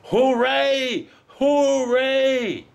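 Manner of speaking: "Hooray!" twice, high and loud; high excited cheer. Real, not acted. Walker celebrating ten Ks, high cheer. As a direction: celebrate the finish at the top of the voice.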